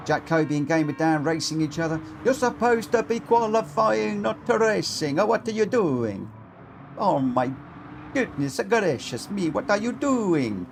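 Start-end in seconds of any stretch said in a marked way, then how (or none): 2.2-10.7 high, sing-song mock Italian accent; hammed-up Italian accent, pitched up; terrible Italian accent. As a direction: scold them in a badly faked Italian accent. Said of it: "terrible Italian accent".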